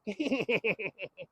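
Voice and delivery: creepy little death laugh; sinister laugh. Retold or imitated. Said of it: "He did a little sinister death laugh".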